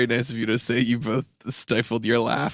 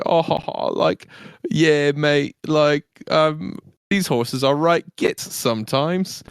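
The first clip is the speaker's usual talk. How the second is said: higher-pitched British banter; carousing stable boy; 4 semitones higher than usual. Pretend. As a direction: play a matey British stable lad joking around. Acts out carousing stable hand.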